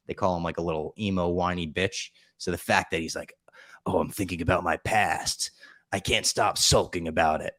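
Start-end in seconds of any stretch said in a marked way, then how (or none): 3.9-7.5 mock brooding emo, only lightly darker; emo Batman voice. Mocking the whiny Spider-Man, light brooding impression. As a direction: sulk it out like a hammed-up broody hero. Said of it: "that deep, almost Batman level voice".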